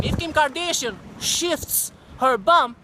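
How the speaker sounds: slow, scornful drawl on Kim Kardashian; sneering slow repeat of the Kardashian line; mocking drawl. Shown as a demonstration. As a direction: stretch it out with contempt. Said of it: "repeats the phrase slower".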